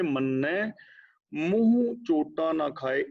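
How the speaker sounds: ਮੰਨੈ, then a clear pause before ਮੂੰਹ ਚੋਟਾ ਨਾ ਖਾਏ, recited slowly; pause after ਮੰਨੈ. Shown as a demonstration. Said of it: "ਇੱਥੇ ਰੁਕਣਾ ਹੈ".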